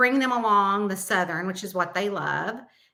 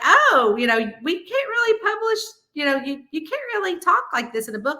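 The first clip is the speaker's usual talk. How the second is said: higher, mock-polite editor telling her no; publisher voice; 7 semitones higher than usual. Publisher telling the author she can't write like that, mock prim. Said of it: "they were like".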